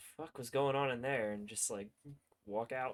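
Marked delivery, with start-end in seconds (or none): 0.0-1.3 quietly muttered under the breath. Playing a character leaving through a guarded door, muttering under breath. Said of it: "Just mutter under my breath".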